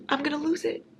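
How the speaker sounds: high, frustrated whine. Real, not acted. Reader whining that the sequel is not out. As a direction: whine it, about to crack.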